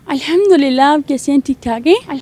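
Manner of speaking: lightly voiced young woman on the phone; a hint of a coy girl chatting; girl's voice. Prank caller chatting with the host as a girl. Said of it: "کر کے تو دکھائیں".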